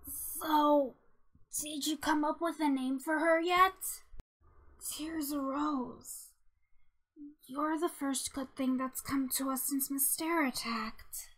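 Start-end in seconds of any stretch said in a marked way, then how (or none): 4.9-11.3 soft, hushed affection; quiet, heartfelt warmth; tender. Acted. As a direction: speak softly, as to a newborn. Tenderly talking about the baby.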